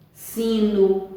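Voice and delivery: "sino" ending in an U sound; "sino" with last O pronounced U; final O as U. Shown as a demonstration. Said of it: "mas tem som U".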